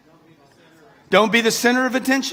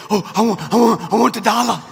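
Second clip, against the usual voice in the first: mock greedy whine; 5 dB louder than usual. Mocking greedy crowd voice.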